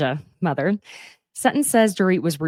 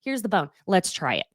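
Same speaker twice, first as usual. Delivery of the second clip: much higher mocking voice for Dorit; Dorit's exasperation; 9 semitones higher than usual. To Garcelle, mocking Dorit's exasperated reply in a much higher voice. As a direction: squeak it out in disbelief. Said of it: "And Dorit points out".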